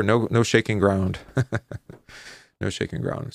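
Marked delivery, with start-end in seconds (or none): 2.6-3.3 a hushed whispered repeat; whispered aside. Shown as a demonstration. Teacher repeating the point to the class in a whisper. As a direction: whisper it, half to yourself.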